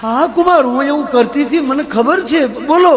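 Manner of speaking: mother-in-law coaxing son-in-law to speak. Retold or imitated. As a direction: humor him gently from up high.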